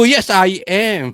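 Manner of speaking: slow, drawn-out admission; hammed-up slow agreement; mock confessing. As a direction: answer slowly, playing the willing confessor. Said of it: "Sasabihin ko".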